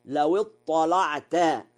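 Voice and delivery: slow لو اطلعت with a dark, thick l in اطلعت; heavy lam. Shown as a demonstration. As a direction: stretch اطلعت, making its lam emphatic. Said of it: "وله تغليظ اللام".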